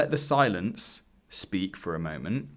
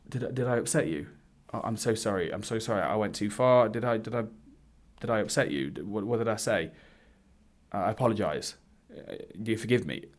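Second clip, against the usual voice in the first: softer, pleading, over-apologetic; mock people-pleasing apology; 4 dB quieter than usual. Imitating his old agreeable self grovelling to an angry date, softer and pleading. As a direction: grovel a little, eager to please. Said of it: "here's how old version of me ... would have responded".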